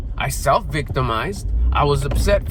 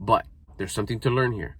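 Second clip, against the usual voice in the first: calm self-talk; 4 semitones lower, 6 dB quieter than usual. Retold or imitated. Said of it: "and say".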